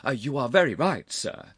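warm agreement. A narrator's reading. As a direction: agree warmly with the older man. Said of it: "said the young man warmly".

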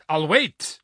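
high, loud, forceful giant; giant's voice. A narrator's reading. Giant answering the challenge, loud and boastful. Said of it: "answered the giant".

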